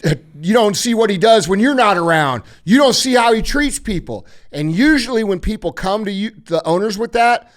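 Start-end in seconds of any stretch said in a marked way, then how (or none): 0.1-4.2 acted-out insistent tattling; mock complaint. Resentful coworkers go to the owner about the new guy, insistent complaining. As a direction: plead a case against a coworker, pitch climbing.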